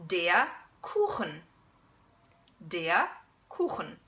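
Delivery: Kuchen with a throaty ch; slow Kuchen with back ch; German Kuchen. Shown as a demonstration. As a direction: Kuchen with ach sound. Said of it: "a couple of examples".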